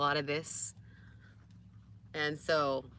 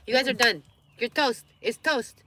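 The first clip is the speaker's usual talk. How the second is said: playful scolding; 7 semitones higher, 10 dB louder than usual. Real, not acted. Scolding the begging dogs.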